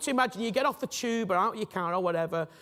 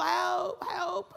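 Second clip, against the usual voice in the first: calling for help; 9 semitones higher than usual. Pretend. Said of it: "you're in this sinkhole".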